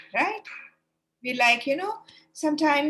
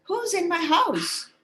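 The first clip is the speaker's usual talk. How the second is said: higher, slow call of the frightened hare; worried hare calling; 7 semitones higher, 4 dB louder than usual. Acted. The hare calls out, slow and high. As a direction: hare calls out into his dark house. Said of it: "He called".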